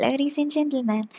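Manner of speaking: slow, lightly voiced cabin announcer; a hint of airline announcer, unhurried; flight announcement. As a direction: imitate an in-flight announcement, drawn out. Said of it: "മുന്നുള്ള announcement ആണ്".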